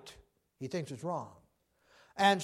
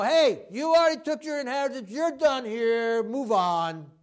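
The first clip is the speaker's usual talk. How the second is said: a loud, higher telling-off; scolding; 3 semitones higher, 4 dB louder than usual. Retold or imitated. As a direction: read him the riot act. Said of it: "read him the riot act".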